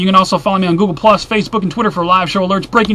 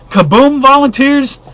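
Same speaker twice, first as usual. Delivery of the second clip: high, loud, slow disbelief at the name; incredulous; 7 semitones higher, 6 dB louder, slower than usual. Real, not acted. Vlogger scoffing at a headline he just read, incredulous. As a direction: stretch it out in mocking disbelief.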